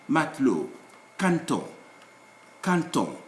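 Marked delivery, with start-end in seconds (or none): 1.2-3.2 "canton" for caneton, as kan-ton; n straight into t in "canton"; silent e. Shown as a demonstration. Teacher modelling caneton without its e, e silent. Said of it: "they have no accent".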